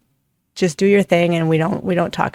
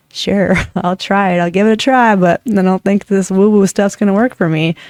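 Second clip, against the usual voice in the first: laughing, half-hearted agreement turning doubtful; imitated skeptic; 2 semitones higher than usual. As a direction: play a doubter humoring the idea. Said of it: "the people that were like me".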